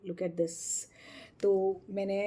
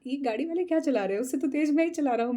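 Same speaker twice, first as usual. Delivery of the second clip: fast, louder and higher cocky brag; boastful driver; 5 semitones higher, 5 dB louder, faster than usual. Retold or imitated. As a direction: rattle it off, proud of his speed. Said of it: "उसने कहा भी".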